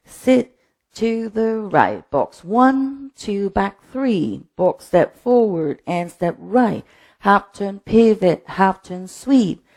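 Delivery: slow, rhythmic cues stretched over the beat; line-dance teacher talking dancers through a routine; dance step calling. Real, not acted. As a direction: call out each move in time. Calls dance steps in time.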